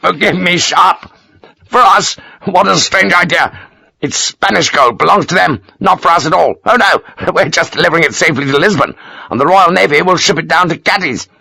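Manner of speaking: can't stop laughing at the idea; barking laugh. Acted. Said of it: "doubled over with his strange laugh".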